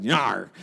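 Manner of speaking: short imitated dog snarl; pit bull snarl. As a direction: lunge like a pit bull at a mailman. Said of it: "a pit bull and a mailman".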